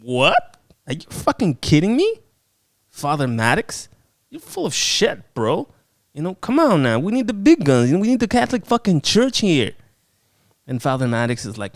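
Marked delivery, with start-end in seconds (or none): 0.0-9.7 mock outrage. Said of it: "And Anne's like".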